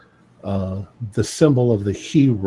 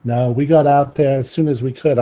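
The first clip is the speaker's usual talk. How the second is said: put-on Cockney accent; 3 semitones higher than usual. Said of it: "I have a, like, a Cockney accent".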